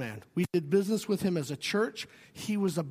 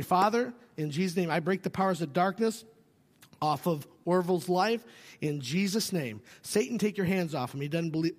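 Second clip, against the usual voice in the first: intercessory prayer. Shown as a demonstration. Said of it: "Here's how you pray for somebody".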